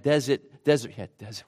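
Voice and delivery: DESERT slipped out as "dezit", Rhode Island style; desert with a Rhode Island non-rhotic ending; Rhode Island accent. Real, not acted. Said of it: "that's my Rhode Island accent coming back".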